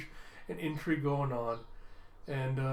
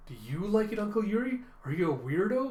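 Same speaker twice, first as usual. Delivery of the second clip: Anya; 5 semitones higher than usual. Acted. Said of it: "Anya's like".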